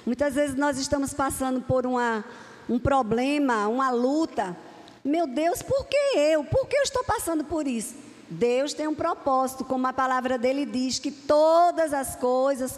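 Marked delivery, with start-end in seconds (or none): 5.0-7.9 mock lament. Preacher voices a struggling believer asking God why, mock lament. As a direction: plead upward, pitch leaping on "por que eu".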